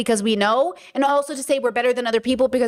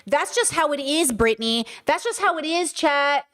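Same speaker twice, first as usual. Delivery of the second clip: higher-pitched mock scolding; dismissive shaming; 3 semitones higher than usual. Voicing patriarchy shaming chat for being shocked, dismissive. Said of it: "justification of patriarchy to say".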